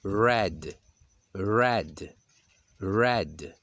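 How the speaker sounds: red with a strong English R. Shown as a demonstration. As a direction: say red with a dense, rolled English R, three times. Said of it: "Pronuncia-se". (red com R inglês carregado)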